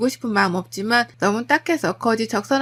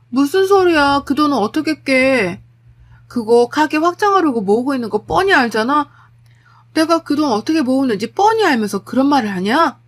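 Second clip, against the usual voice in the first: louder, sharper refusal; indignant wife; 4 semitones higher, 5 dB louder than usual. Acted. Wife refusing to break her shop savings, indignant. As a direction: push back at him in indignation.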